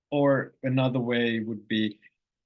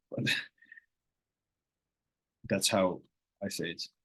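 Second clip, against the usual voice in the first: ordinary talk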